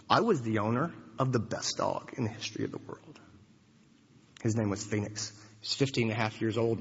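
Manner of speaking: low, soft, voice breaking with grief; choked up, fighting back tears; voice cracking. Real, not acted. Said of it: "if my voice cracks".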